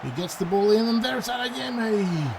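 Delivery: excited play-by-play lift; rising excitement. Real, not acted. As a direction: voice climbs high as the chance builds. Attack builds toward goal.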